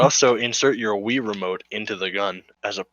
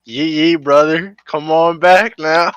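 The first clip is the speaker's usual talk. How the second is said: hammy southern hick call; redneck machine voice; 2 semitones higher, 4 dB louder than usual. Retold or imitated. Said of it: "you just hear from the machine".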